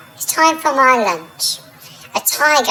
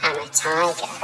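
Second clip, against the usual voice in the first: deflated; 5 semitones lower, 8 dB quieter than usual. Acted. Defeated tiger insisting.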